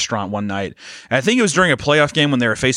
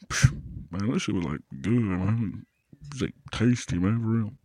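put-on Chicano accent; 3 semitones lower, 7 dB quieter than usual. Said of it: "You sound like Shaq doing a Chicano accent".

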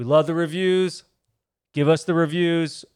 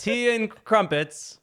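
put-on English accent; 9 semitones higher, much slower than usual. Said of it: "Let me hear it".

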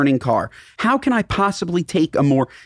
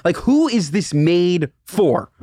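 slow, drawn-out disbelief; drawn-out incredulous rant; much slower than usual. Retold or imitated. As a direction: stretch each word in mock outrage. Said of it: "And I thought to myself".

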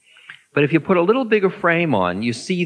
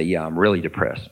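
low, heavy, glum reply; mopey depressed answer; 9 semitones lower than usual. Retold or imitated. Teacher voicing a depressed student answering him, low and glum. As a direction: sink into the word depressed, lower. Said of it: "You say".

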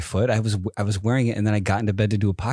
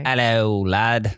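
put-on playful Irish puppet accent; much slower than usual. Husband debuting his Irish sock puppet, mock Irish accent. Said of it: "He's an Irish suck".

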